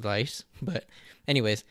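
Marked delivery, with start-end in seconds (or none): 0.0-0.4 dice with a tapped onset between L and R; dice, neither clear L nor clear R; merged L-R sound. Shown as a demonstration. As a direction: begin dice with a quick tongue tap. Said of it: "when you say dice, it's just dice".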